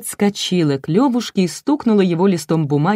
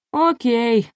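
стон; 7 semitones higher than usual. A narrator's reading. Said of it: "простонала Буба".

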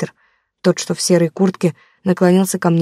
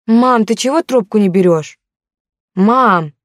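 higher, louder anxious call; worried calling; 4 semitones higher, 4 dB louder, slower than usual. Acted. Daughter on the phone shouting for her mother, worried. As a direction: call out for mum urgently.

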